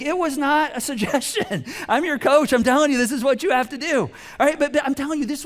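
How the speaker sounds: laughing as she insists she's the coach; laughing firm coach. Retold or imitated. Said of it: "her coach was like".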